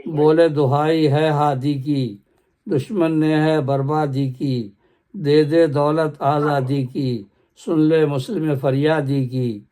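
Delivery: slow, measured poem recital; stately nazm recitation. Acted. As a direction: recite each line slowly and with weight. Next stanza of nazm. (باوقار انداز میں آہستہ نظم خوانی)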